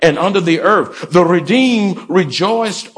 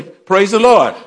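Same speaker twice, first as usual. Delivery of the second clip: enthusiastic praise; 3 dB louder than usual. Shown as a demonstration. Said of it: "say it with enthusiasm".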